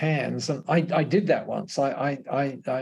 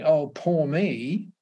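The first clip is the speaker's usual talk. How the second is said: slow, drawn-out mock woe; mock self-pity; 3 semitones higher, much slower than usual. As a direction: play at feeling sorry for yourself, slowly. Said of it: "when I'm going".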